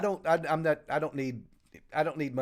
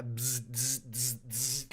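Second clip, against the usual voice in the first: buzzing noise; 5 semitones lower, 9 dB quieter, much slower than usual. Pretend. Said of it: "I'm on overload".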